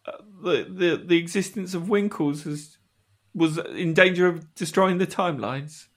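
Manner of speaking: put-on hesitant British fishmonger accent. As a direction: question it in a theatrical British accent. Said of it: "You mean I have to use my real accent?".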